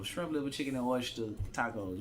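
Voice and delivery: dish name said in one run. Shown as a demonstration. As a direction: roll straight through the list without stopping. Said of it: "You gotta say it like that".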